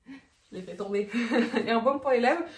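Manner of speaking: talking through a laugh; amused, laughter in the words. Real, not acted. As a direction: carry on while giggling at the slip. Laughs after dropping the product.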